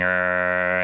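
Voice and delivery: low, drawn-out mock growl; short imitated creature growl. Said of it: "and he's growling".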